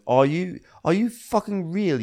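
high mock outrage; mock outraged Tom. Host voicing Tom yelling at Ashley, high mock disbelief. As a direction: bite it out in disbelief. Tom's outburst imitated.

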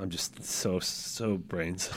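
put-on American accent, low and soft; a playful fake American drawl; faux American accent. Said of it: "faux American accent".

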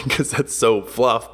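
chuckling through the words; slow, amused laugh. Real, not acted. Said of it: "I'm kinda laughing at the fact".

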